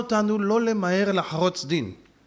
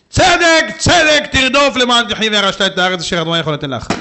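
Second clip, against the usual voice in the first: proclaiming verse; 5 dB louder than usual. Acted. Preacher proclaims verse with force.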